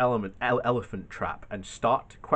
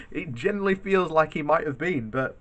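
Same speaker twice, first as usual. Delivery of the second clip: higher voice just after a laugh; amused, recovering from laughter; 4 semitones higher than usual. Real, not acted. Vlogger agreeing with a viewer's joke, amused after laughing. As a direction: answer while still getting over a real laugh.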